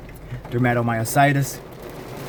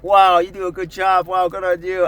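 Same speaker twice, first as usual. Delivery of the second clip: high, gushing mock congratulations; exaggerated cheerleading for a small feat; mock praise; 6 semitones higher, 4 dB louder than usual. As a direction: imitate someone overdoing the praise, louder and higher. Imitating over-the-top praise for condition.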